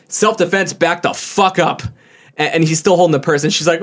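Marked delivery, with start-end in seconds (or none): 0.1-1.8 mock yell, raised pitch, slowing at the end; restrained imitation of his warning yell; retold yell. Employee with box cutter warning her off, mock yell. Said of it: "he was just yelling".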